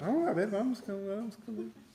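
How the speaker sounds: scoffing, teasing mockery. Retelling Tomás's words from the Bible passage: imitating Tomás mocking. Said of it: "Como que burlonamente".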